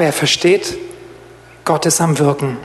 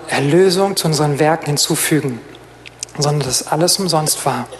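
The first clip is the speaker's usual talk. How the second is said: closing prayer. Real, not acted.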